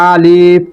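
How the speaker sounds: আলিফ kept brief and unstretched; quick clipped আলিফ; short alif, no lengthening. Shown as a demonstration. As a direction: say আলিফ short, with no stretch on the vowel. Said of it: "এভাবে কোনো টান হবে না".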